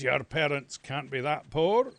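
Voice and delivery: loud disbelieving teacher; teacher doubting the boy's story. Retold or imitated. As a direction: bark it back in disbelief. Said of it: "And he says".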